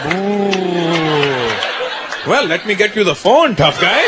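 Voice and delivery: sarcastic father voice; dad calling bluff. Retold or imitated. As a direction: taunt the boy coolly.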